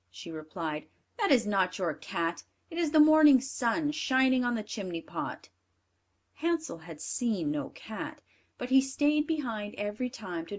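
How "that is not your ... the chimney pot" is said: louder, bossy stepmother; a hint of a cruel stepmother; wicked stepmother. Stepmother dismisses.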